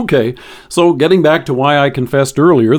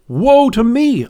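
higher, slow mock cry of dread; mild terror; 7 semitones higher, slower than usual. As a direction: voice a hint of the prophet's terror. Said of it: "He cried out in terror".

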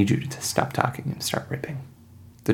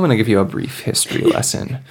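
villain threat; 3 dB louder than usual. Acted. Hunter warning the party, lightly menacing.

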